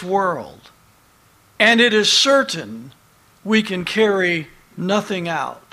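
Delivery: measured, emphatic Bible reading; scripture reading. Acted. Preacher reads a verse to his congregation, emphatic scripture reading. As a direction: read the verse out with weight.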